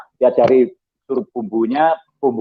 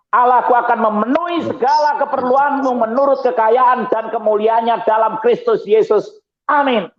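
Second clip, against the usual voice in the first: much higher, proclaiming the verse; proclaiming scripture; 9 semitones higher than usual. Acted. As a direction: ring out the Bible verse like a preacher. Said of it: "Ini keren. Ayat ini keren". (membacakan ayat dengan suara tinggi berkhotbah)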